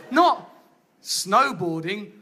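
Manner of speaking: low, slow deflated. Shown as a demonstration. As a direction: sink into disappointment. Reality of snowboarding.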